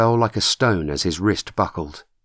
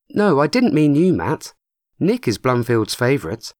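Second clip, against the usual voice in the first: a hint of a brisk young woman, higher; Chrissy's voice, lightly raised; lightly voiced young woman; 6 semitones higher than usual. A narrator's reading. Chrissy correcting herself to Matt, lightly voiced young woman.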